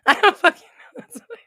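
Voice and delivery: high, fast and loud through laughter; laughing. Real, not acted. Real giggling outburst. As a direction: streamer gives up on the viewer's question, cracking up. Can't answer viewer's question, cracking up.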